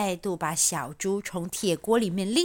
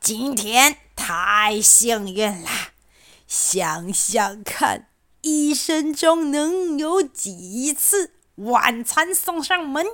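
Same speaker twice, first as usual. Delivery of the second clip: exclaiming fox; 3 semitones higher, slower than usual. Acted. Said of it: "嚷嚷着".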